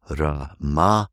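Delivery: Ramayana slowly, with the stress on the third syllable from the end; Sanskrit stress. Shown as a demonstration. Teacher gives the correct Sanskrit stress slowly. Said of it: "third from the end".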